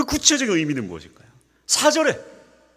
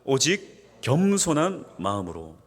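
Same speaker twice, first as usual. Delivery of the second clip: slow scripture reading; slower than usual. Shown as a demonstration. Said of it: "한번 같이 한번 읽어볼게요".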